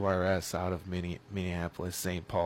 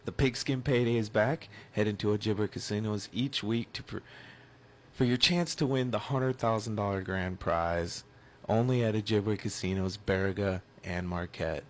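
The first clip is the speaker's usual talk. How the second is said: upbeat radio ad read; live ad read; 2 semitones higher than usual. Acted. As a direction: sell it like a live sponsor spot. Reads a casino radio ad.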